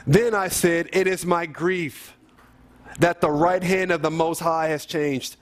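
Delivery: measured, declarative psalm reading; solemn Bible reading; scripture reading. Acted. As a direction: read the verse out deliberately to a congregation. Reads psalm aloud.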